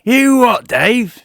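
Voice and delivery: sudden high, loud "You what, Dave?"; startled shout. Acted. Comic postman startled, yelling at Dave. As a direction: blurt it out, caught off guard.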